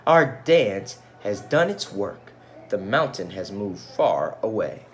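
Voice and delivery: triumphant. Acted. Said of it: "cried Ming Lo".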